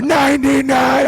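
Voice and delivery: high, slow stadium announcer shout; mock arena announcer; announcer call. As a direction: stretch the number out over the crowd. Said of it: "like pyros going everywhere".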